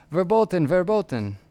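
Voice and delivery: loud angry shouts in terrible German; shouting in bad German. Farm boy shouting at the soldier, loud angry German. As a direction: bark the word like a furious farm boy. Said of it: "shouting in terrible German".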